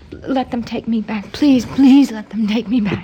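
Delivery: slow, begging to be taken back; pleading. Acted. Amy begs the doctor to send her back, slow pleading. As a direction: plead slowly, near tears.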